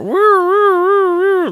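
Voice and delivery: high, whooping cheer; gleeful falsetto whoops; excited woo. Real, not acted. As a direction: whoop it up like a fan. Hyped spoiler cheer.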